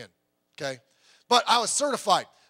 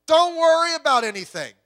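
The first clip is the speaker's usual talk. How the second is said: preached quote; 9 semitones higher, 8 dB louder than usual. Retold or imitated. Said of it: "Tells us".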